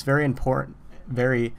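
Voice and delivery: cracking, failing voice. Real, not acted. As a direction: voice giving out mid-sentence. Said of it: "man, I'm losing my voice today".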